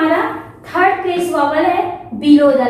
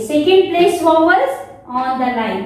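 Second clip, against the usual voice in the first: very slow, word by word; slow dictation; much slower than usual. Shown as a demonstration. Teacher slowly dictating the rule to students. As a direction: spell it out slowly for the class.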